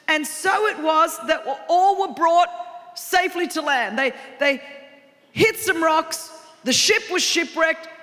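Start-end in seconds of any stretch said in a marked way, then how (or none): 0.1-4.0 reading the verse slowly and deliberately; slow read scripture. Shown as a demonstration. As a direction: lay out each word of the verse at a slow pace. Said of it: "It says".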